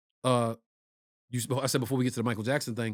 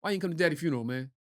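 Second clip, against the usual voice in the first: put-on country accent; 3 semitones higher, faster than usual. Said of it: "my cousin Mikey was super country".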